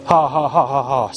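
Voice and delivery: lightly imitated jeering laugh; understated mock laugh; stupid mocking laugh. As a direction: mimic a taunting ha-ha without real laughter. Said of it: "in that stupid way".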